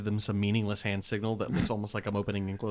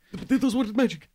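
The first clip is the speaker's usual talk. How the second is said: excited shout; 11 semitones higher, 4 dB louder than usual. Acted.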